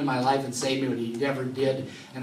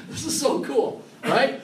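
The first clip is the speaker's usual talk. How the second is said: laughing; 10 semitones higher, 4 dB louder, slower than usual. Real, not acted. Preacher delighted by scripture.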